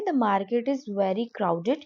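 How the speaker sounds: slow, clear English model line; slow classroom demo; slow model sentence. Shown as a demonstration. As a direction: read it out slowly like a teacher. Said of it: "तो इसको आप कैसे बोलेंगे?".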